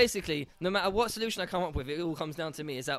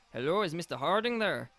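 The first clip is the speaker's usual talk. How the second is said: lightly attempted Irish accent. Telemarketer phoning the house, lightly attempted Irish accent. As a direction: have a loose go at sounding Irish. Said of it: "in an Irish voice".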